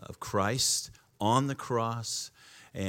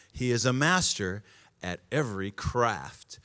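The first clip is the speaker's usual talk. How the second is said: raised, measured Bible reading; scripture reading. Acted. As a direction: read it out to the church. Reads scripture aloud.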